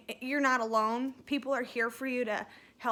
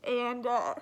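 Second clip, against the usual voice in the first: fast, teary, crying voice; real crying while thanking her. Real, not acted. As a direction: push through the sobs. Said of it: "I'm such an ugly crier".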